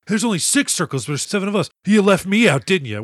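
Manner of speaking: Kikuchiyo, voiced lightly, accusing the others of leaving him out; mock offended whine. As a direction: play the sulky outsider who feels left out.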